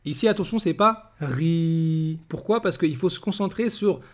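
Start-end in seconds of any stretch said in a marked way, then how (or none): 1.2-2.2 RI with the vowel held long and level; prolonged vowel. Shown as a demonstration. Teacher warning learners about the vowel, held long. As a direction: draw out "ri" on one steady note. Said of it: "ça va se prolonger en a".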